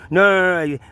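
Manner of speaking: firm no. Retold or imitated. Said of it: "He goes".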